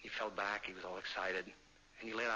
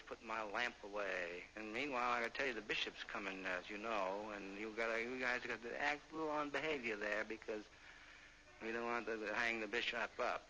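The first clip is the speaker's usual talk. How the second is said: a lightly raised weary scolding; tired railroad man warning the bums; hint of a gruff dad; working father. Father figure scolds the poets.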